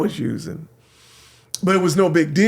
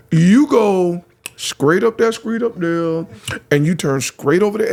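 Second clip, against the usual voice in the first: put-on Southern accent; 3 semitones higher than usual. Young lady giving the lost DJ directions in a Southern accent. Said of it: "never heard the Southern accents".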